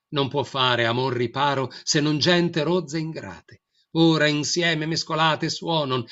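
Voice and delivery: lectura clara y proyectada hacia afuera; lectura con voz palatal. Shown as a demonstration. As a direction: proyecta el poema hacia quien escucha, voz brillante. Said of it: "le muestro una célebre". (lee el poema en voz palatal, abierta y clara)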